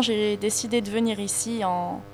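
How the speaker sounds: ordinary talk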